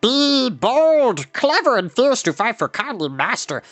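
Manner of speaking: a small wild beast eagerly announcing himself; excited creature shout. Acted. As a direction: Gurgi shouting his own name proudly. Gurgi boasts for master.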